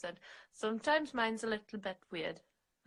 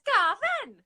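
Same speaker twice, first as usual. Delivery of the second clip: high, loud call of Gavin; hammed-up Stacey calling out; 12 semitones higher, 8 dB louder than usual. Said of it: "She says".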